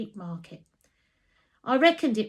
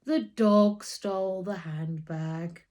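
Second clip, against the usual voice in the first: heavy sarcasm; slower than usual. Acted. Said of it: "he said heavily".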